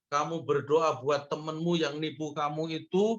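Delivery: ordinary delivery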